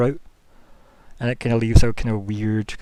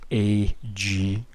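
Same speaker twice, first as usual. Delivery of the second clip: a guttural creature grinding out the letters; strained guttural. Acted. The figure repeating Alice's term, strained and guttural. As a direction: force each letter out through a growl, straining. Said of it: "as if it's straining the term A G".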